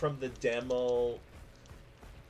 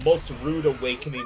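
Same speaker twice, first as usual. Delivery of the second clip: laughing; 4 dB louder than usual. Real, not acted. Laughing after the hit.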